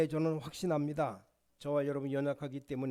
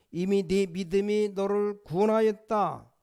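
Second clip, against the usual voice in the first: voicing Jesus; 4 semitones higher, 5 dB louder than usual. Pastor voicing Jesus' declaration.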